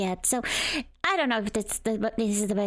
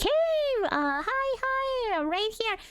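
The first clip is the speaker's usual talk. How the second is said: high-pitched voice; 12 semitones higher, slower than usual. Retold or imitated. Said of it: "everybody's like".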